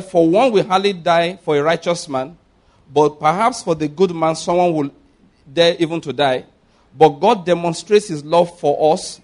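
emphatic, measured Bible reading; scripture reading. Acted. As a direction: read the verse out to the congregation. Reads scripture aloud to congregation.

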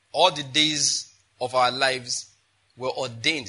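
slow, with ordained drawn out and weighted; stress on ordained. Shown as a demonstration. Preacher stressing a key word for the congregation, slow and weighted. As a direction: lean hard on ordained. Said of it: "why did I emphasize that word ordained".

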